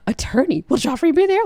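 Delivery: high, gushing imitation of a delighted girl; thrilled. Sansa hears about the tourney, mock thrilled. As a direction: mimic an excited girl, pitch leaping up. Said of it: "Sansa is thrilled".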